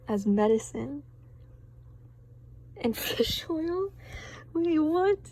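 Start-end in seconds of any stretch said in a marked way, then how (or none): 2.8-5.2 surprised. Real, not acted. Reader laughing in disbelief.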